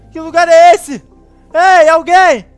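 loud confused call. Acted. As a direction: call out into the dark. Calling out.

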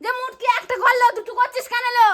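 heated, scolding yell; rude yelling. Acted. Telling a relative to take it to mother, rude yelling. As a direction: snap back rudely in a row. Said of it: "অভদ্র মতো তুই চিল্লাচ্ছিস".

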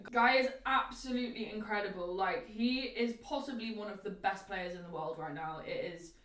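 chewing between words; talking while eating. Real, not acted. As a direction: mouth partly full of noodles. Seen 1: Holds fork over noodle plate, eating between phrases, face small.

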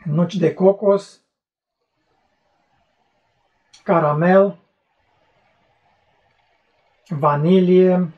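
glass held at lips; muffled by tasting glass; speaking into a glass. Real, not acted. Seen 0: Tasting glass held at nose and mouth through most words.

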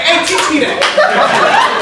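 high, loud, stretched-out plea; hammed-up impressed squeal; amazed request. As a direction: call it out in high comic awe.

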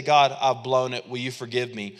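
soft, quiet plea; humble confession. Retold or imitated. Praying to God for forgiveness, softly. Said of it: "we say".

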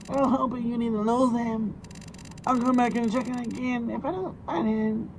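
high, thin granny voice; old lady voice. Acted. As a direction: play a sweet old woman. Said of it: "you do the old lady voice".

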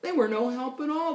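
lilting rhymed storytelling; animated read-aloud to a child; story reading. A narrator's reading. Reads rhyming story.

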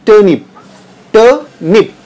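टर्निप said with no r, like te-nip; silent r. Shown as a demonstration. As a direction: drop the r in टर्निप. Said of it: "आर को आप silent में pronunciation". (टर्निप, आर silent)

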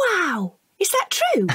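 put-on child gasping in amazement at the tall tale; amazed. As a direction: caught up in the wonder of it, pitch jumps way up. Child hears the pin story.

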